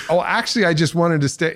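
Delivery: imitating partner. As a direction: answer sheepishly as the partner. Partner's sheepish answer.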